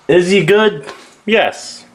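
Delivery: playful high question. Acted. Mock Q and A wrap-up.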